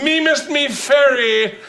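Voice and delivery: high, slow hammed-up Irish brogue; mock Irish accent. Comic riffing on the Irish old maid, mock Irish brogue. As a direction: drawl it like a stage Irishman. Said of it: "Old maid".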